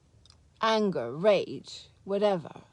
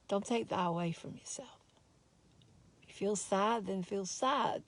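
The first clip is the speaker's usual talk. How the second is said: soft whisper; 5 dB quieter than usual. Real, not acted. Gentle urging to viewers.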